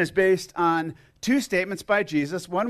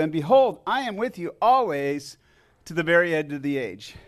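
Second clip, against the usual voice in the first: louder, firm reciting of the verse; scripture recitation; 2 semitones higher, 3 dB louder than usual. Real, not acted. Pastor recites the Great Commission to the congregation, firm and proclaiming.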